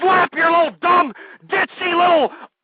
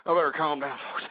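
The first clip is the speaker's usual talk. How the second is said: calming down; 14 semitones lower, 12 dB quieter, much faster than usual. Real, not acted. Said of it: "Let me calm down here".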